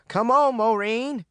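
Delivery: high, urgent call. A narrator's reading. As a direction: call her to hurry. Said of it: "Yellow Jack called".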